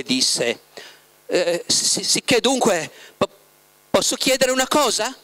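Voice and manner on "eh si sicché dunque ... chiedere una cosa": balbettando, voce più alta, esitante; incespicando nelle parole. A narrator's reading. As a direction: inciampa sulle sillabe come chi non osa chiedere. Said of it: "incespicando nelle parole". (Margherita che esita e balbetta davanti a Voland)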